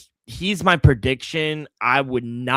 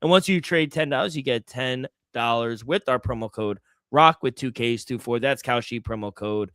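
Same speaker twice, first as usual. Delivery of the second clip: ad read. Acted. Reads sponsor ad.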